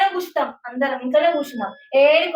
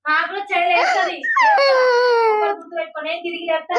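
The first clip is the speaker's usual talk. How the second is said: crying; 3 semitones higher than usual. Real, not acted. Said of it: "నువ్వు ఎందుకు ఏడుస్తున్నావు?".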